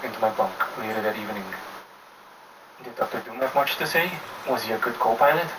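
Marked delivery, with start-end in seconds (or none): 2.8-5.5 mock voice. The speaker teasing, mock voice.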